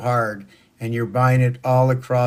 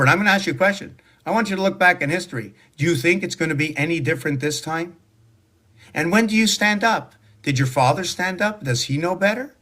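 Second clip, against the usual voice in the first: higher and fast, firing questions; heated rant; 5 semitones higher, faster than usual. Real, not acted. Ranting at viewers about history, fired-up and fast. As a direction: press them hard with rapid, rising questions.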